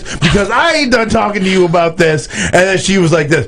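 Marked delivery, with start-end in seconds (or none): 0.0-2.3 retold shout.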